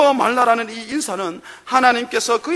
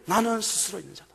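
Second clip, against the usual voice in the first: suddenly softer, reverent, with weight on 나는; hushed God's voice; 8 dB quieter than usual. Acted. Preacher quietly repeating God's words, hushed and reverent. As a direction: let it drop to a solemn hush.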